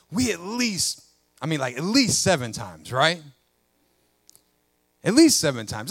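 mildly smug Peter haggling over forgiveness; Peter bargaining. Retold or imitated. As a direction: play Peter pleased with his own generosity. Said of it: "Peter goes".

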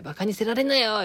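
バカにせられなよ said with only a touch of anger, near normal level; mild Okayama scolding. Retold or imitated. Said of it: "こういう風に怒るよなーと思って". (軽く岡山弁で叱るまね)

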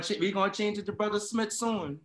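chuckling through the words; laughing. Real, not acted. Laughs while answering.

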